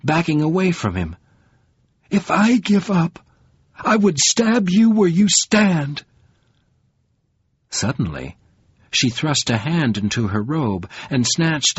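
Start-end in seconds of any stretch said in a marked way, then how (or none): 2.1-6.0 venomous threat. A narrator's reading. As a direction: make each word a blade. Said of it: "she gasped in virulence".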